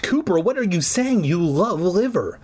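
high shocked mother; shocked mom. Acted. Mother hearing son hate liver, shocked and high. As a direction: gasp at your son's words.

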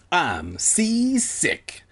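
hammed-up seasick moan; mock whining. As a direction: drag it out like a feeble complainer. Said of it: "like a little bitch-ass motherfucker".

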